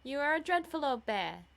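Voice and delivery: high, loud affectionate teasing; crying out. A narrator's reading. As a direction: playfully scold your brother. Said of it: "she cried".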